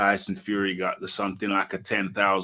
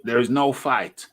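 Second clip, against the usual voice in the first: normal talking voice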